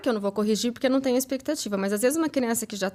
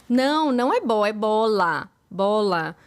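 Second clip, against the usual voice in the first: put-on louder, emphatic correction of a toddler; acted insistent correcting; correcting a child; 4 dB louder, slower than usual. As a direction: correct the little one firmly, BOLA stressed.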